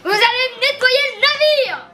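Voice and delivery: ordre de capitaine furieux, plus fort et aigu; en colère. Acted. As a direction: crie ta colère sur l'équipage. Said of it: "Mais vas-y, énerve-toi!". (voix énervée de capitaine)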